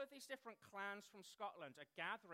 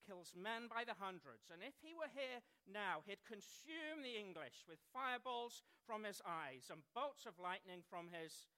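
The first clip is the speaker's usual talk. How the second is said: lightly acted boast, louder, in own English accent; William Wallace; 2 semitones higher, 4 dB louder than usual. Film hero answering a doubting soldier, mildly declaimed boast. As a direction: build up the legend with a raised voice. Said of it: "William said".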